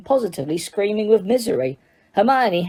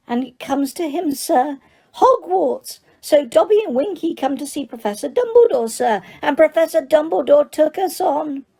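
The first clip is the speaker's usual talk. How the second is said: high, squeaky elf voice, eager to please; squeaky house elf; 8 semitones higher than usual. Acted. House elf tells Harry he needs work, high and squeaky. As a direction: pitch it up as an excitable little elf. Dobby continues.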